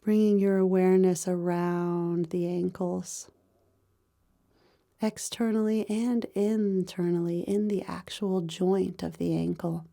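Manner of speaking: calm, even meditation voice with long pauses; guided body scan meditation. Real, not acted. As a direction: guide them gently through the body, pausing between phrases.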